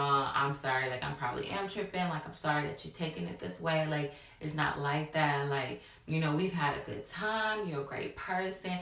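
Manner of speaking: retold placating apology, pitched low; smooth it over so everything seems fine; low-key sweet-talk to calm him; finessing. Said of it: "finessing, like, telling him whatever".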